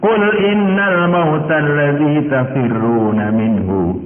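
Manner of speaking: slow, melodic Quranic chant; Quran recitation. Acted. Preacher reciting the verse to the congregation, slow melodic chant. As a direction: draw each Arabic phrase out in recitation.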